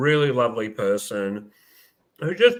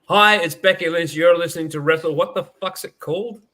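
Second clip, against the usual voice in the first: higher and louder, imitating a bright station ID; retold excited intro; 5 semitones higher, 6 dB louder than usual. Host imitating Becky's eager radio tag, higher and louder. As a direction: launch in eagerly then lose the name. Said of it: "And then she goes".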